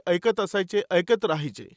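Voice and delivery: ordinary talk, nothing marked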